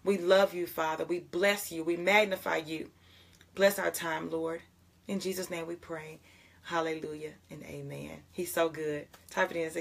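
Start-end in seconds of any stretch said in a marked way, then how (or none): 0.0-8.2 earnest spoken prayer to God, fading at the close. Acted. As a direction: lead the morning prayer with devotion.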